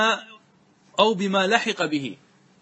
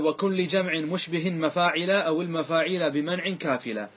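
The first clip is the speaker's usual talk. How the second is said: slow, measured chanting of a verse; a teacher intoning a grammar verse; verse recitation. Acted. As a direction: recite the line of the poem deliberately. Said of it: "ثم قال".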